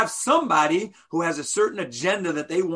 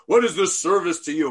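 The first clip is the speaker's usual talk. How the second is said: hotsy-totsy; 4 dB louder, faster than usual. Retold or imitated. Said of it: "we all get hotsy-totsy".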